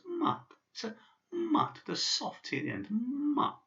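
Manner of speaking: "mat" with a soft, palatal final T; "mat" ending in a softened T; soft sign. Shown as a demonstration. Teacher showing the soft T in "mat". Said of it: "It's got a soft sign".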